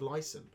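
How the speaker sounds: "listen." said as "lice-en", with a long i like lice; mispronounced listen. Acted. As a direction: say "listen." rhyming its start with "lice". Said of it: "a combination of lice and listen".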